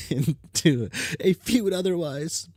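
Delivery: whispered through a giggle; laughing whisper. Acted. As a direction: giggle it out under the breath. Giggles after fumbling the word.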